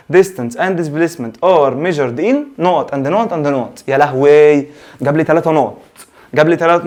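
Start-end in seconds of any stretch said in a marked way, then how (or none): 0.1-3.8 reading the exam question. Retold or imitated. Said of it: "بيجيب لك في السؤال كده يقول لك".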